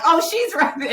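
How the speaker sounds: high, loud fan call breaking into a laugh; excited crowd cheer. Retold or imitated. Fans spotting their runner in the race, imitated excited cheer. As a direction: imitate a thrilled spectator pointing someone out.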